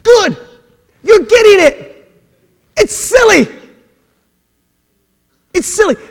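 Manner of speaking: high-pitched, loud, gleeful exclamations; big excited bursts with pauses between; excited approval. Acted. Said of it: "he's like".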